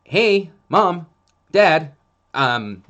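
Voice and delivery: high, loud, pleading dog talking to its owners; a nervous dog begging to stop; anxious dog voice. Retold or imitated. Dog pleading with mom and dad, high and loud. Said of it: "and they're like".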